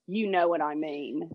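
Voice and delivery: slow, knowing Australian accent, lightly imitated. Snowboarder's parting tease to the girl, slow Australian accent. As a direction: let it land slowly in a mild Australian accent. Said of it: "You do the accent so well".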